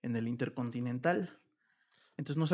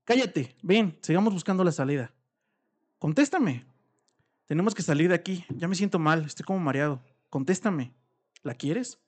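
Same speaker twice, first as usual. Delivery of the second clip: louder, pressing demand; urgent demand; 3 semitones higher, 6 dB louder than usual. Acted. Spouse trapped in the dark demanding an answer, urgent and loud.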